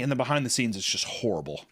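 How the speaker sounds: normal talking voice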